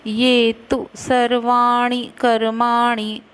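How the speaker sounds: तु said with a short u, not a long तू. Shown as a demonstration. Teacher showing students the short u in तु. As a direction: keep the vowel in तु short and clipped. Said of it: "तू में छोटा ऊ की मात्रा".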